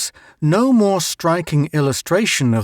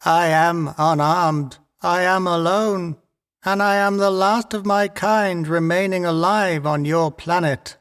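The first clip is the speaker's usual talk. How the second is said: tiny voice; 4 semitones higher than usual. A narrator's reading. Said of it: "a tiny voice said".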